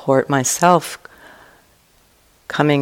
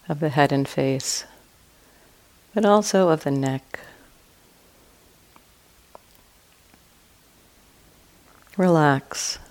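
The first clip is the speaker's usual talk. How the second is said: guided meditation. Real, not acted. Teacher guiding listeners to relax and expand awareness, calm meditation voice. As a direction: ease listeners through it, leaving long silences between short phrases.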